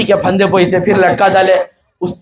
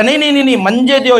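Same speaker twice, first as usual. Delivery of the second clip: eager protest; 5 semitones higher, faster than usual. Acted. Disciple fights to be hanged first.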